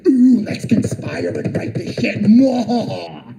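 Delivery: slow sneering plotter with a fake evil laugh; mock villain. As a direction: ham up a cartoon conspirator. Mocking critics conspiring.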